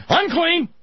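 sudden high, loud warning yell; play-acted startled street cry; mock screaming. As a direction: yell a leper's warning at a passerby. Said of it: "you had to wander around screaming".

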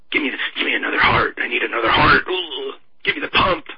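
mock craving war hawk. Acts craving hawk needing a heart.

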